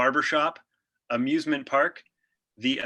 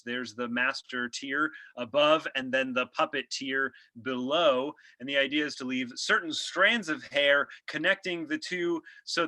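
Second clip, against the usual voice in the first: upbeat radio show host; podcast host voice. Acted. Host explains style.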